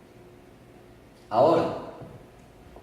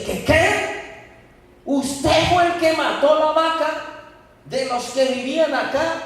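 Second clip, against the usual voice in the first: astonished; 9 semitones higher than usual. Acted. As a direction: gasp out the shock of the news. Man stunned by the confession. (asombro incrédulo, agudo y fuerte)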